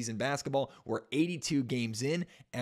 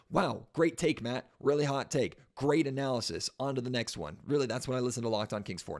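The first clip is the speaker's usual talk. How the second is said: sarcastic. Acted. Mocking his own obvious point.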